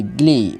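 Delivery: "গ্লি" as one syllable; said together. Shown as a demonstration. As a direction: blend g and l straight into "গ্লি". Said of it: "এটা একসাথে গ্লি".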